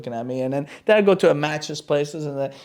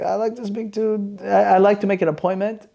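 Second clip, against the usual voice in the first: disguised voice; 5 semitones higher than usual. Retold or imitated. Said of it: "I changed my voice".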